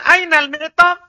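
"Ainal mi'tab" pitched high, ending on a rise; questioning tune. Shown as a demonstration. Teacher has students repeat, questioning rise on "Ainal mi'tab". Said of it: "Itu bertanya".

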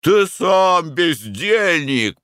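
high, slow, loud roar flinging back бездельник; roared retort. A narrator's reading. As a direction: throw the insult back at Mick. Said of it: "проревел я".

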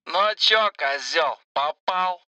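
high mocking gangster sneer; thuggish voice. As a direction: sneer it like a street thug. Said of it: "поинтересовался блатной голос".

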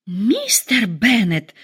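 slow whispered fury, breathless; mock rage, voiced only in breath; furious outcry. Wife forced into a slow furious whisper at husband. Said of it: "в ярости вскричала его жена".

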